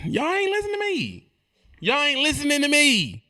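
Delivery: high mock exasperation; high-pitched complaint. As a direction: plead up high to be heard.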